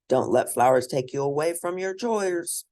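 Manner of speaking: warning. Acted. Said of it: "warned Moses and Susan Carver".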